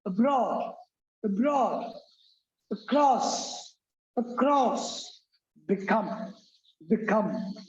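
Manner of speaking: abroad, across, become each said twice, carefully; teacher drilling word pronunciation; drilled words. Shown as a demonstration. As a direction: model each word slowly for students. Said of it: "Give an example".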